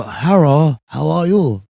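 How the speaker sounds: mock Asian accent greeting. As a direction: put on an Asian accent for hello. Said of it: "can you do an Asian accent".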